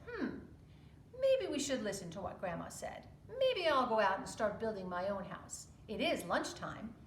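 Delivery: middle pig. Acted. Middle pig voiced in story.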